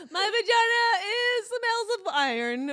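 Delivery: slow, high mock stage line; stand-up delivery. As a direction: deliver it like a deadpan punchline. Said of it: "go on stage and be like".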